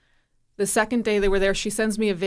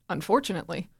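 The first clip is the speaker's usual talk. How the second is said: incredulous echo; 2 semitones lower, 3 dB quieter, faster than usual. Retold or imitated. Mom echoing Pia's word back in mild disbelief. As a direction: echo "Unfortunately?" back as if it can't be true. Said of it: "I went".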